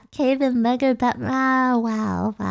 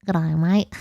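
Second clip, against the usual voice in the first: Australian good day mate; 4 semitones lower than usual. Shown as a demonstration. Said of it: "for people who aren't Australian".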